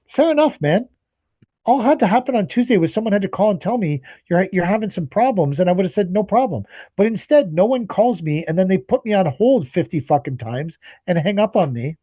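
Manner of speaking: sarcastic calm that can't hide the anger; exasperated sarcasm. Retold or imitated.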